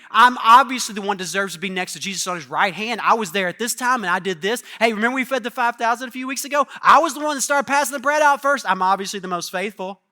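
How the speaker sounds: loud, self-important boast; smug bragging. Retold or imitated. A disciple bragging to the others, loud and smug. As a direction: puff up your own merits.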